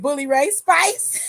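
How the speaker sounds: slow, loud, drawn-out read of the comment; shouted comment read. Real, not acted. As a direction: call the comment out loud, slowly, already cracking up. Reading a funny chat comment.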